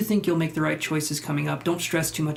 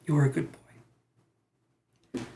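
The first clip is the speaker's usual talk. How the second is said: drawn-out pet talk; much slower than usual. Real, not acted. Streamer cheering herself up with slow pet talk. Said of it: "that's how I cheer myself up".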